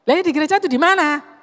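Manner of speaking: quick, irritated question; impatient driver. Retold or imitated. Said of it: "Ini nadanya sudah enggak enak". (sopir yang tidak sabar bertanya dengan ketus)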